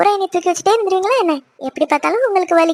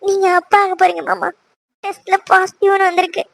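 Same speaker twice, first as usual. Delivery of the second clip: tearful good news; acted weepy wife; crying. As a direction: tell your husband the news through tears. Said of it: "இதுக்கு ஏன்டி அழுகுற".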